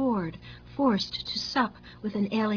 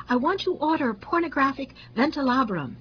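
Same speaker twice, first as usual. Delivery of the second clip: higher-pitched, gleeful order; amused customer; 5 semitones higher, 3 dB louder than usual. A narrator's reading. Customer ordering from the fan maker, amused. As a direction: order it with naughty relish, pitch lifted. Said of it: "he burst out laughing".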